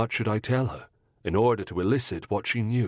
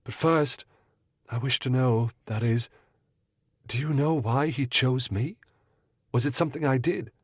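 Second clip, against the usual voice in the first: higher, quickening worried woman's voice; anxious young lady, lightly voiced; 4 semitones higher than usual. Mrs Munro asking the detective why she was chosen, worried. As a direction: ask it anxiously.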